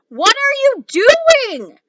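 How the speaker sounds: high, loud, slow call; impatient mother calling. Acted. Mother calling upstairs, impatient, loud and high. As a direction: drag it out, fed up.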